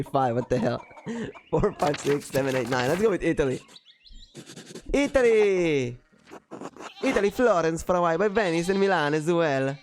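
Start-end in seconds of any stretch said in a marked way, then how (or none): 4.9-9.8 acted enthusiastic reminiscing. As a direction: recall your travels with in-character excitement. Player answers villager in character.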